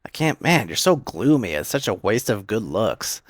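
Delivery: lightly hammed-up exasperation; annoyed. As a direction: act out her whiny annoyance. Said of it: "she gets annoyed with him".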